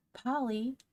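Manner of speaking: high-pitched call for Polly; ringing call. A narrator's reading. A child calling Polly from dangerously near, high ringing call. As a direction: call out high, as if searching for her. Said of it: "rang a voice dangerously near".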